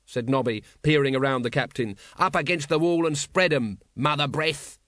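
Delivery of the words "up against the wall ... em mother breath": cocky henchman. Acted. Nobby barks a mock arrest order.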